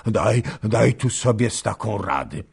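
gasping as he begs; panting, broken voice. Acted. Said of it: "mówił przerywanym głosem sapiąc". (zdyszany, przerywany głos)

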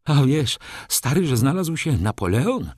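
agitated friend announcing big news; excited call. Acted. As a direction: call out the news from the middle of the room. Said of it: "zawołał".

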